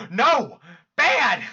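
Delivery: short loud scolding bark; sharp scolding. Acted. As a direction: scold like a dog owner. Scolding a sobbing friend.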